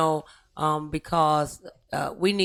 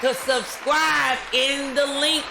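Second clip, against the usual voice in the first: show sign-off; 5 semitones higher than usual. Real, not acted. Host thanks guests and audience for the show, upbeat sign-off. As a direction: send the audience off with lifted, projected energy.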